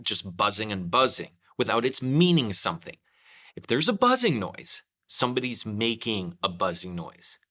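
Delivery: a hint of a bear voice, loud and pondering; lightly voiced Pooh. Pooh thinking aloud.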